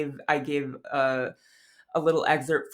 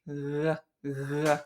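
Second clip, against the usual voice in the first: soft R sound at the back of the throat; breathy uvular approximant; uvular approximant demo; 4 dB quieter than usual. Shown as a demonstration. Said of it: "So it sounds like".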